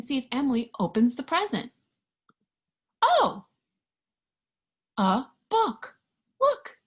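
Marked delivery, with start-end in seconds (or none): 3.0-6.8 high loud oh of surprise; surprised. Acted. Reading to children, a big surprised oh. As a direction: gasp it out in delight.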